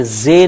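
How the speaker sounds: زے said as a plain light z; slow stressed زے. Shown as a demonstration. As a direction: contrast زے with the heavy zoe. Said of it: "یہ زال نہیں ہے".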